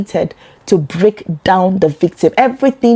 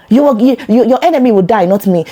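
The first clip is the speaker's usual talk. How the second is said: mock curse; 4 semitones higher, 3 dB louder, faster than usual. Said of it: "lay curses on you".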